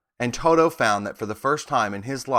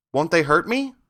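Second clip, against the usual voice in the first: anxious; 6 semitones higher than usual. A narrator's reading. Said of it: "asked the girl anxiously".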